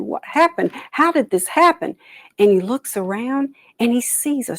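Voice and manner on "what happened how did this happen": rising alarm. Acted. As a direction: voice climbing higher with each question. Turtle grows alarmed at his pond.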